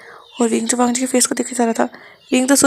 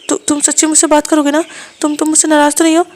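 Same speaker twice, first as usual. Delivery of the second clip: hurt lover, raised pitch, a little louder; Wang ji's voice; 4 semitones higher, 3 dB louder than usual. Acted. Wang ji amazed that Wing is talking to him, pleading. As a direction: ask it half-accusing, half-hopeful.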